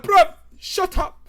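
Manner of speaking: loud, high, drawn-out shout; angry chav. Acted. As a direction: shut the old lady down with an acted yell. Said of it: "And he's like".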